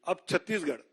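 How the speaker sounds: slow, deliberate list announcement with long pauses; slow name reading. Real, not acted. Announcing candidates' names to the press, slowly and deliberately. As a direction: read each name out slowly, pausing between items. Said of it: "मैं धीरे-धीरे नाम पढ़ता हूं".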